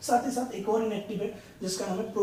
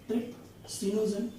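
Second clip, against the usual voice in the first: each syllable of ट्रिप्सिनोजन said slowly and clearly; slow dictation; slower than usual. Shown as a demonstration. Teacher dictating ट्रिप्सिनोजन slowly to students, syllable by syllable. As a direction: spell ट्रिप्सिनोजन out slowly for notes. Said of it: "सबसे पहला मैं आपको यहाँ पे लिखता हूँ".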